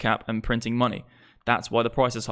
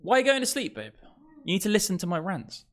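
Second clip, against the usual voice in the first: much higher, playful whiny tease; teasing partner; 7 semitones higher than usual. Real, not acted. Streamer teasing his sleepy girlfriend in a high whine. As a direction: tease her for dozing off.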